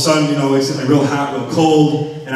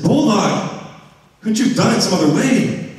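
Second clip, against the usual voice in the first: whiny reproach; high, pleading complaint; 6 semitones higher than usual. Retold or imitated. Questioning the cat Bulldog in a high pleading tone. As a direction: complain to the cat, half laughing. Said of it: "I said".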